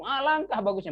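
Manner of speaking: high admiring exclamation; acted amazement; exclamation of wonder. Shown as a demonstration. Teacher illustrating the mark of amazement, exclamation of wonder. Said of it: "lit ta'ajub ya".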